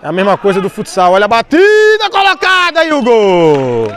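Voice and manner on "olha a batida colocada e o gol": explosive goal commentary. Real, not acted. Goal call.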